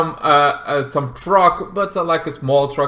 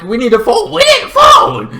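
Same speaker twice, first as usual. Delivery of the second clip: urgent shouting; 8 dB louder than usual. Acted. Siblings begging old lady for phone, urgent shout. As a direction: yell building to a high scream.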